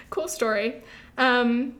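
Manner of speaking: words caught in a choking throat. Real, not acted. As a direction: talk through a choke, throat tight. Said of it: "sorry, I'm choking".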